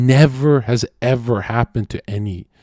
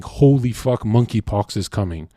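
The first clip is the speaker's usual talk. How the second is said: panicked woman. Retold or imitated. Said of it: "every woman would be running around saying".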